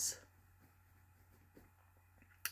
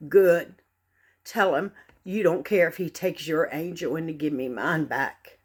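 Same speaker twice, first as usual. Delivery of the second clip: loud furious scream at God; 3 semitones lower, 7 dB louder than usual. Retold or imitated. Mother screaming back at a mourner's platitude, loud and furious. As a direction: hurl it out at the top of the lungs. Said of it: "I screamed to the top of my lungs".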